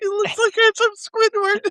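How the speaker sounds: cracking up while speaking. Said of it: "Will cracking himself up".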